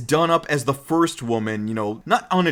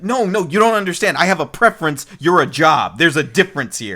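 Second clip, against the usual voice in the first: louder, insistent explaining; 3 semitones higher, 4 dB louder than usual. Retold or imitated. Ryo explaining his preferences, louder insistent. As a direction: set her straight firmly. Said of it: "Ryo's like".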